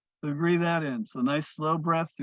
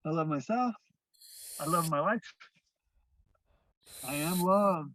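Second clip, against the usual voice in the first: measured, sincere "I love myself" with pauses; spoken affirmations. Shown as a demonstration. Teacher leading affirmations, calm and sincere. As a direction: let each line land. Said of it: "So take that in".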